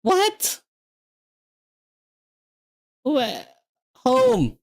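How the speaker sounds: very high confused "what"; totally thrown by the error; high incredulous squeak; baffled squeak. Real, not acted. Permission error confuses him.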